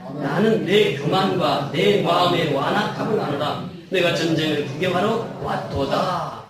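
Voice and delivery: slow, firm congregational Bible reading; scripture reading. Acted. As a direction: read the verse out with drawn-out endings. Reads scripture aloud with congregation.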